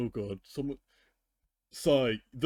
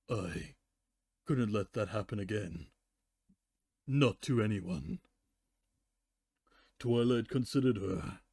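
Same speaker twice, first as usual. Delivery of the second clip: story reading with character voices; story narration; 2 semitones lower than usual. Acted. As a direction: narrate and voice the ponies by turns. Fanfic reading.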